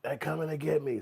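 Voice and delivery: movie gangster quote. Retold or imitated. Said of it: "What the movie used to say".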